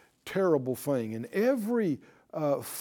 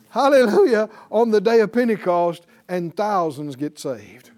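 loud joyful hallelujah; shouted praise; 9 dB louder than usual. Real, not acted. Preacher exulting over Pentecost, loud shout. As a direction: let the praise burst out.

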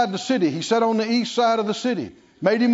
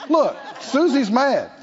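amused, slowed mock announcement; a wry, laughing mock herald; mock heavenly announcement; 3 semitones higher than usual. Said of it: "announcement in heaven".

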